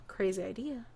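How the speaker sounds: whispered aside. Retold or imitated. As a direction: breathe it as a secret aside. Whispered aside in retold scene.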